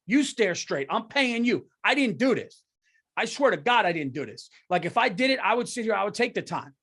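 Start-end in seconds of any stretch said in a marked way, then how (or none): 0.1-4.5 defiant. Pretend. Defiant reply to lawyer.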